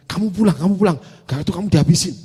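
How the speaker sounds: mild mock yell, imitating the wife; retold yelling. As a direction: echo the threat as a half-hearted holler. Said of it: "Dia teriak-teriak tuh. Dia bilang".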